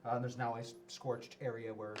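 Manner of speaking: narrating a scene for the players; game master scene setting. Acted. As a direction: read the room description aloud. Game master reads room description.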